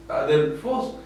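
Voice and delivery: adelfos with a softened, sunken -fos. Shown as a demonstration. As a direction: let the end of adelfos go down. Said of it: "era más para bajar".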